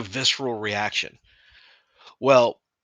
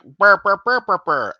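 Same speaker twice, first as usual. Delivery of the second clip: mock growl; 8 semitones higher, 10 dB louder than usual. Mock noise after "you're like.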